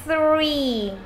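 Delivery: Three with a soft voiceless th, tongue out; Three, pushing the tongue tip out on th; Three, th vô thanh, đẩy đầu lưỡi ra. Shown as a demonstration. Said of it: "Nhớ âm T H nhé".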